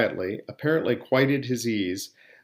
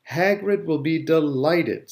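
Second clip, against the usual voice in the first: higher, slow, pleased delivery; smiling; 5 semitones higher, 3 dB louder, slower than usual. A narrator's reading. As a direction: say it through a smile.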